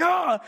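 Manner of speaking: high, loud "Oh!"; hammed-up exasperated yell; mock scream. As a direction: cry out as if fed up. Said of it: "then you start screaming".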